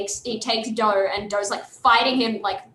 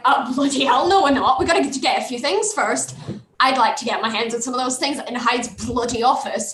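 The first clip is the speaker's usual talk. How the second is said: acted irritation, a little raised; fuming. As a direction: grumble heatedly as an indignant character. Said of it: "He's fuming".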